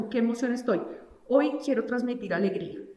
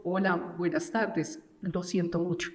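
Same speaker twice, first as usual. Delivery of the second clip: slower, lower condolence greeting; 3 semitones lower than usual. Shown as a demonstration. Expert demos the right tone for a grieving person, slow and somber. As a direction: take it gently, with sympathy. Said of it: "aquí va una velocidad distinta".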